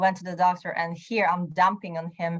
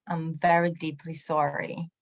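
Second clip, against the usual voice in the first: softer, deeply sincere apology; mean every word of the sorry; 2 semitones lower, 4 dB quieter than usual. Retold or imitated. Apologizing sincerely to the angry coworker. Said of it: "But it was very sincere".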